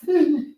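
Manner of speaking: high, mock crying noise; hammed-up high whimper; imitated crying. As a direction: imitate a fake sob, pitched high. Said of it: "he crying with a".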